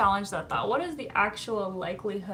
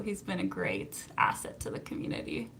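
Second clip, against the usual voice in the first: whispered aside; 3 semitones lower, 6 dB quieter than usual. Real, not acted. Whispered aside about moderator.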